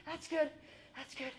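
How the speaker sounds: loud urgent calls to a panicking friend; rescuing friend. Retold or imitated.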